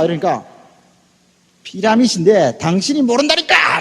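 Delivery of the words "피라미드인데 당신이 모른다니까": drawn-out, insistent retort; browbeating. Retold or imitated. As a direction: hammer the point slowly at them. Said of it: "막 택도 없이 막 몰아대니까". (느리게 힘주어 우기는 말투)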